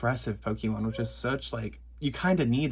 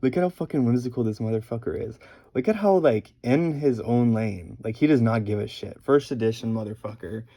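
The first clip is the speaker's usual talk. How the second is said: loud, gushing praise; hyped up about the art; excited; 6 dB louder than usual. Real, not acted. Excited rant about whimsical card.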